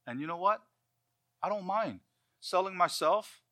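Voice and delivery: lightly acted earnest testimony; impassioned early Christian. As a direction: speak as an aging Christian offering himself as a servant. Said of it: "and they say".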